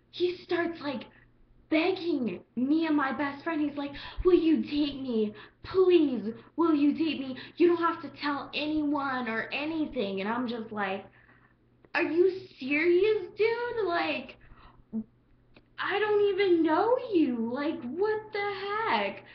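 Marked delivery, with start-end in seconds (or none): 4.2-10.2 mock begging. Guy begging her. 11.9-19.2 high, loud disbelief; appalled at the creep, loud and high; loud shocked disbelief; incredulous. Retold or imitated. Outraged at guy.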